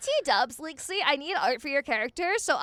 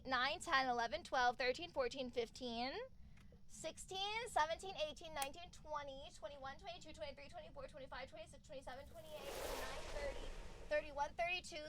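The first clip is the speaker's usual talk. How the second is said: fading count; 7 dB quieter than usual. Real, not acted.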